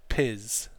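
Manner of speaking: piz on its own, rhyming with his; isolated model syllable piz with voiced z; Z-ending piz. Shown as a demonstration. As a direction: end piz on a buzzing z. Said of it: "it's a Z sound at the end".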